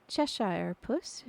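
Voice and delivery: slow, hesitant address; a light touch of shyness, unsure of the name; lightly timid, testing the name; timidly. Acted. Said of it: "she began rather timidly".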